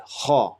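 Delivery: breathy ha from the throat; throat sound ha. Shown as a demonstration. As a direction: push ha out from the throat. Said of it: "So it's from here".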